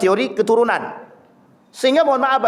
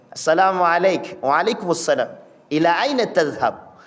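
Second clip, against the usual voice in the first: careful, lower, measured formal Arabic greeting; fluent classical Arabic; 5 semitones lower than usual. Shown as a demonstration. Preacher showing fluent Arabic to the congregation, lower and careful. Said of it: "bisa berbahasa Arab fasih".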